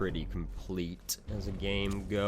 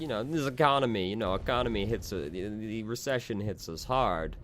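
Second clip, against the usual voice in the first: put-on a lazy, half-committed Russian accent, quick and higher; half-hearted Russian accent; 4 semitones higher than usual. Griping about the recession to viewers in a half-hearted Russian accent. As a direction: toss off a joke about the economy in a sloppy Russian accent. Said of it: "like, do a Russian accent".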